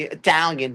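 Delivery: "Italian" squeezed to two syllables, "TAL-yun"; emphatic, compressed "Italian"; with attitude. Shown as a demonstration. Comic shows how Italians say it, with attitude. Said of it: "they gotta say with attitude".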